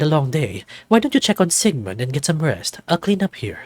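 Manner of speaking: a hint of a smooth older host telling legends; mildly voiced host, teasing at the end; lightly voiced leopard host. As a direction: spin the island rumor like a campfire tale.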